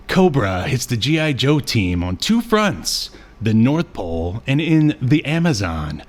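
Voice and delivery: announcer-like synopsis read, slowing at the end. Acted. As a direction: read it out like a dramatic episode teaser. Reads the synopsis aloud.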